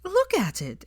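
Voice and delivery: a high exclaim with a touch of sob; a sobbing girl's high outburst. Acted. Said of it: "exclaimed Hermione, choking on another sob".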